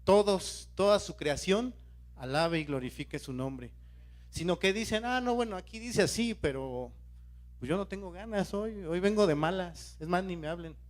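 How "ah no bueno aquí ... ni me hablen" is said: imitating a half-willing churchgoer's excuses; mock reluctant attitude. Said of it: "y una actitud así".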